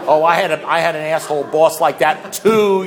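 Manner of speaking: mock-sympathetic group member; lightly mocked fellow sufferer; pity-party commiseration. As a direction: commiserate a bit loudly, hamming it up. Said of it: "have a giant pity party".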